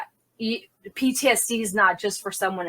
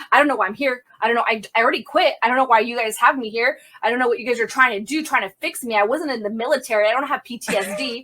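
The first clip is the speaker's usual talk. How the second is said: quick, mildly heated retold protest; a touch of stubborn defiance; adamant; faster than usual. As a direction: insist on it in a rapid run of objections. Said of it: "adamant the entire time".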